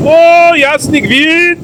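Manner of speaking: gasping at the freezing sea; shocked by cold water, slow cry; in ice cold water. Real, not acted. Wchodzi do zimnej wody. (szok w lodowatej wodzie)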